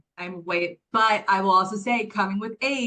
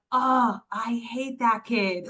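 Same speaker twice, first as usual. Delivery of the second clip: imitating son; 3 semitones higher, slower than usual. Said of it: "He, like".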